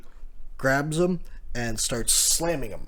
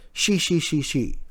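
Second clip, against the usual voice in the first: odd laugh imitation; 3 semitones higher than usual. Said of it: "which is a different laugh for him".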